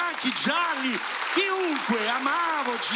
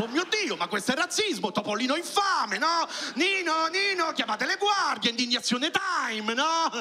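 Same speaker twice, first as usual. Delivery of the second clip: higher, hammed-up indignation; mock outrage; 5 semitones higher than usual. Comic mocking his own modern outrage at the cartoon, higher voice. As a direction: play a shocked modern viewer crying racism. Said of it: "ho detto".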